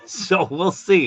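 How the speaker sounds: chuckling it out slowly; amused laughing shrug. Real, not acted. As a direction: laugh through the words. Laughs through the line.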